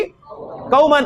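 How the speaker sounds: कौमन with its final -an stretched very long; teacher demonstrating the accusative ending; drawn-out ending. Shown as a demonstration. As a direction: hold the ending of कौमन to show the case. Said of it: "इसकी नस्ब क्या होगी".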